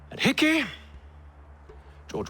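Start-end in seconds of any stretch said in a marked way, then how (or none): 0.1-0.6 scornful rising question, pitched much higher; sneering at his son's accusation; mocking question. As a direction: toss the name back with contempt. Father mocks son's list.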